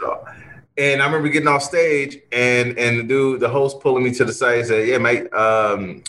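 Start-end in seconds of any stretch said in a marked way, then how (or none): 4.9-6.0 a bad English accent, slow; hammed-up English accent, badly done; mock Londoner accent, slow and lazy; terrible English accent. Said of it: "I just did a really terrible English accent".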